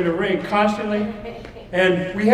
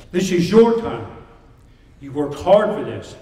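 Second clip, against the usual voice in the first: halftime pep speech. Acted. Motivational speech to fighters.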